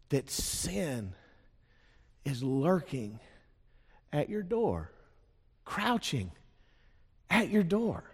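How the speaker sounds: soft and slow, pausing between each phrase; slow ominous pauses. Acted. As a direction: let each phrase hang with menace. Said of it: "dramatic warning phrase".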